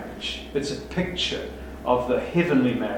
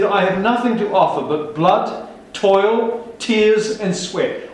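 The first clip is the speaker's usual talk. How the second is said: 1 quoting Churchill; 4 semitones higher, slower than usual. Retold or imitated. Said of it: "He said".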